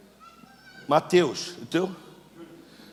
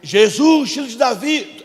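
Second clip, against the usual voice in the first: clamor de cego em voz alta; clamando; 3 semitones higher, 5 dB louder, slower than usual. Shown as a demonstration. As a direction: clame como quem pede socorro. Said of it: "É clamar, irmão, clamar". (clamando em voz alta)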